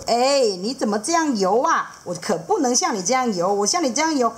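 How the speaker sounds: gently explain, mildly fussy; hook fish dad. Acted. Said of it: "钩鱼爸爸就说".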